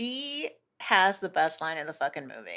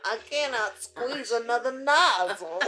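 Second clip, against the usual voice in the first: hammed-up weary Southern worker; mock Southern complaint; exhausted Southerner; 2 semitones higher than usual. Playing weary Southern gas pumpers.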